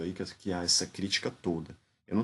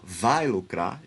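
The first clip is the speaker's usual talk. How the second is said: "vai lucrar" said with a raised, louder tune; "vai lucrar" com entonação mais alta; higher intonation; 4 dB louder, much slower than usual. Shown as a demonstration. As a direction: lift the pitch on "vai lucrar" as if promising gain. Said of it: "A entonação é mais alta quando ela fala".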